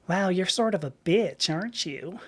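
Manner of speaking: mild mock Georgia accent; Georgia front-desk accent. Receptionist judging the rude caller, light Southern accent. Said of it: "it's a Georgia accent".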